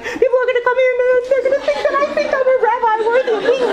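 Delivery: very high, fast, hammed-up fretting; mock-panicked high-pitched protest; embarrassed husband. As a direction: imitate a mortified husband in a fast high squeal. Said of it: "He was so embarrassed".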